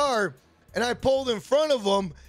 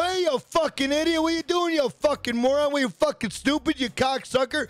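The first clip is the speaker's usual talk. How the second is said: raised, heated mock yell out the car window; retold swearing at driver; 3 semitones higher than usual. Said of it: "I'm swearing like that".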